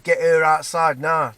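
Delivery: slow, emphatic mock shout; retold shout. Man demanding she come outside, a half-strength retold shout. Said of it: "fucking shouted".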